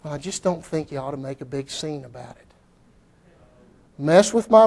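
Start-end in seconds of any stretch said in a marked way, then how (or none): 0.0-2.5 mock objector.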